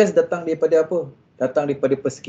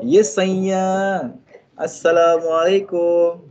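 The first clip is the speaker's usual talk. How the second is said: gentle greeting; much slower than usual. Shown as a demonstration.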